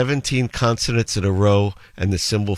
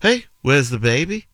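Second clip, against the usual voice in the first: higher-pitched, lilting Liverpool accent; 5 semitones higher than usual. Shown as a demonstration. Host gives one example phrase, Liverpool accent. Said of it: "If you were in Liverpool, you'd say".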